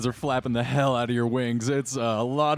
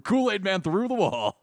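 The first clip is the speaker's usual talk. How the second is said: excited; 8 semitones higher than usual. Real, not acted. GM hyping the bash.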